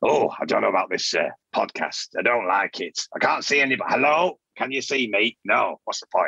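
grumbling, grumpy cat puppet voice, broad northern accent. Doing the cat puppet's voice for another speaker: grumpy cat puppet voice. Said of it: "That's the cat".

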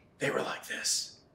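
barely voiced, very quiet, breathy whisper. Telling about someone seen this morning, doing how they spoke: Don Corleone whisper.

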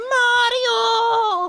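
put-on cartoon shriek. Imitating Luigi's shriek from Luigi's Mansion. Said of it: "He does that fucking shriek".

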